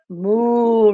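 long, drawn-out moo; cow moo. Shown as a demonstration. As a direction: imitate a cow for a small child. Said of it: "cómo hace la vaca". (mugido de vaca)

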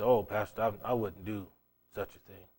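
low, soft, trailing away; meek mock protest. Churchgoer denying to the pastor any betrayal, meek and hushed. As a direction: imitate a demure churchgoer, fading to almost nothing.

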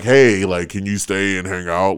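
lightly put-on straight guy voice; straight man voice. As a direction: slip slightly into straight-man talk. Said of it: "put on your straight man voice".

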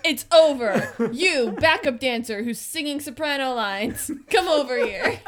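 loud, abrupt, laughing; loud brusque call. Retold or imitated. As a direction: call her over brashly. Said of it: "Tom was like".

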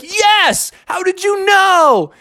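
put-on high, earnest amazed kid; Froggy. Boy thinking Mom believes him, amazed. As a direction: answer eagerly, missing the sarcasm. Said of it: "And Froggy's like".

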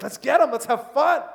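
God cheering you on like a buddy; excited let's get 'em. Retold or imitated. Preacher voicing God eager for a fight. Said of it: "He's like".

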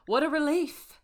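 hammy attempt at a French accent. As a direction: have another go at a French accent. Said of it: "I'm gonna try to do a French accent".

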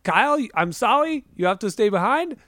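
put-on high-pitched hammy German accent; singsong, badly faked German accent; Jack Black's bad German. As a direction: hand down the verdict as a fake German scientist. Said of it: "doing a German impression".

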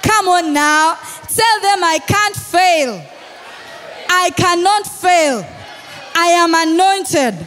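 shouted, repeated preacher's declaration; rousing preaching. Acted. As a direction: build the crowd with every repeat. Leads congregation in shouted declaration.

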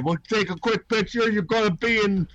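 shady scalper. Retold or imitated.

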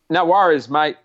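Aussie tradesman twang; breezy Aussie no worries, mate; Australian accent. Pretend. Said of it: "I was doing Australian".

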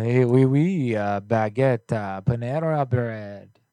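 mock French accent, slowing down. Shown as a demonstration. Host demonstrating for a prank call, hammed-up French accent. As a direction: put on a joke French accent. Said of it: "You got a French accent in you?".

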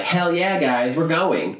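high eager hell yeah; pumped kid cheering his friends on; excited. Retold or imitated. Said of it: "And Ash is like".

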